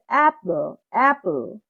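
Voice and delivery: অ্যাপল with অ্যাপ stressed, ল light; stressed first syllable. Shown as a demonstration. Teacher showing capital-letter syllable, stress on অ্যাপ. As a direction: hit অ্যাপ and let ল fall in অ্যাপল. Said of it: "capital letter অ্যাপ".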